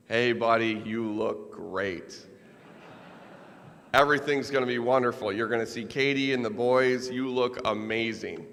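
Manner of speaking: hammed-up bright reassurance over a fake smile; fake cheerful reassurance. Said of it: "the fakest smile I'd ever seen".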